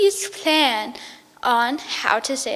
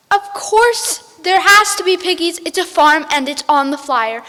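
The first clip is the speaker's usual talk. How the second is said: angry witch; 3 semitones higher, 5 dB louder than usual. Acted. Witch insists.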